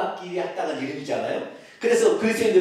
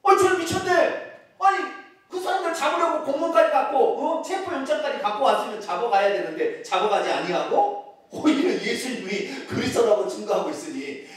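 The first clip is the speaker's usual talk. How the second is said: incredulous onlookers; 7 semitones higher than usual. Acted. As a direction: act out baffled outrage at a turncoat. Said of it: "그 유대인들은 뭐요?".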